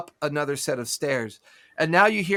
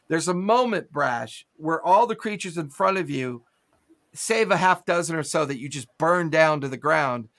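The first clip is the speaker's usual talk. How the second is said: ordinary talk, nothing marked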